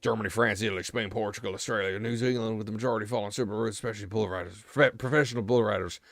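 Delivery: reading aloud in a put-on American accent. Streamer reads an encyclopedia entry to viewers, American accent. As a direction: rattle the list off in an American accent. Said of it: "you're speaking in an American accent".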